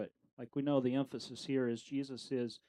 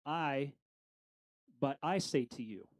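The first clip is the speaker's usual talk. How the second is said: "I" set apart by a pause, then stressed in the phrase; emphatic "I", said as the one with authority. Shown as a demonstration. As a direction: lean on "I" in "but I say to you". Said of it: "he doubles down on emphasizing".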